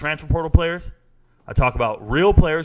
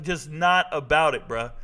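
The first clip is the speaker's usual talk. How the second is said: ordinary talk, nothing marked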